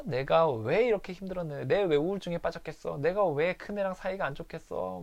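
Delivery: hint of a wife crying out; retold tearful rant. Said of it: "울고불고 난리를 피는".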